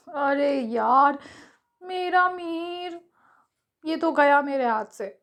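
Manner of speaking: slow, drawn-out whine; mock complaining. Juhi lamenting losing Mihir, hammed-up whine. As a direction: moan like a heartbroken fan, half joking. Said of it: "जूही कृप करते हुए बोल पड़ी".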